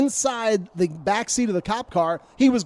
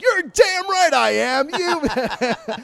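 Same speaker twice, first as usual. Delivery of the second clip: much higher, slow mock-defiant snap; defiant retort; 7 semitones higher, much slower than usual. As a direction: throw it back at him, drawn out and indignant. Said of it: "And he's like".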